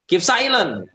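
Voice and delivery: international school teacher. Shown as a demonstration. International school teacher quieting the class, commanding hush. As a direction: call for silence like a teacher. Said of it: "sekolah internasional tuh biasanya".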